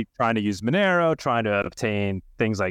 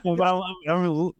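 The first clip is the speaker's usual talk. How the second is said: laughing; 8 semitones higher than usual. Real, not acted. Host laughs at thunder noise.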